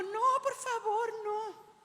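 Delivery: movie damsel's scream. Retold or imitated. Preacher mimics the perfectly made-up girl chased in horror films, mock screaming. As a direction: imitate a film heroine pleading prettily, slowly. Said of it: "gritando, ... Pero yo no gritaba así".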